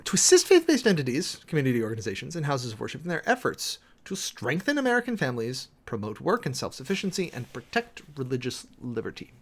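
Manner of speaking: measured, official reading of an executive order; formal document reading. Acted. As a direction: read it out like a clerk entering it into the record. Reads order text again.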